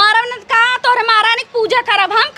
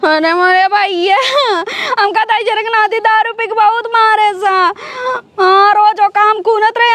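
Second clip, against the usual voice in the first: tearful pleading. Acted. Beaten wife calling brother crying.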